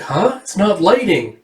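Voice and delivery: put-on high, baffled girl; lifted voice, confused and let down; puzzled child's pitch; acted puzzlement. Erica puzzled by failed attempt.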